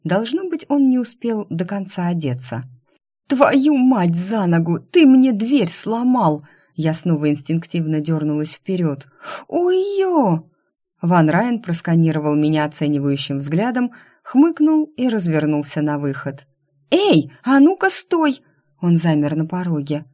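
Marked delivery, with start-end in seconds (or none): 3.3-6.4 громко, выше, медленно и возмущённо; рявкнуть на него за сломанную дверь; возмущённый крик. Acted. Героиня кричит на Драйдена. 9.5-10.5 высокий вскрик, как от резкой боли; ойкнуть от острой боли. Acted. Рванулась вперёд от боли. 16.9-18.4 громко и высоко, в спину уходящему; остановить его окриком. Acted. Окликает уходящего Драйдена.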